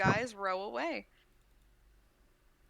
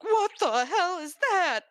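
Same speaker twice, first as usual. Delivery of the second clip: alarmed shout; 11 semitones higher, 9 dB louder, slower than usual. Acted. Dwarves react to the spider.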